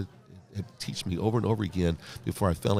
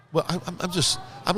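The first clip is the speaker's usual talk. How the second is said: real laugh, pitched higher; 11 semitones higher than usual. Real, not acted. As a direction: laugh through the stammered words. Laughs retelling his confusion.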